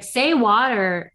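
slow imitation of a British-accented prompt with a sounded R. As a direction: prompt slowly in a half-landed British accent. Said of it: "she would pronounce it in the accent".

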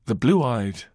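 documentary narration. Acted. Podcast host narrates Antarctica's dangers to listeners, dramatic documentary voice. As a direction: paint the icy wilderness with dramatic pauses.

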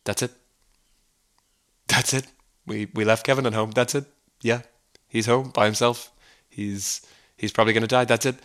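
soft, offhand brush-off; uncaring dad waving off his wife, quiet and dismissive. Retold or imitated. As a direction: mumble it to shut her up. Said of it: "the father and he's like".

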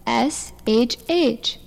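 slow spelled-out shh; spelling out shh. Acted. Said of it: "I just said".

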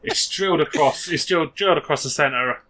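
lightly voiced match commentary; radio commentary. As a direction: call the goal like local radio. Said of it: "Be, be Steve Watkins".

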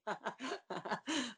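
mimicked spaced-out "ha ha ha"; imitated awkward laugh. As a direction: laugh emptily, imitating someone with nothing to say. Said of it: "qui dit rien du tout et qui fait".

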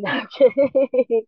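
laughing, slowly taking the joke back. Real, not acted. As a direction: laugh and admit you were kidding. Jokes she won't always have energy.

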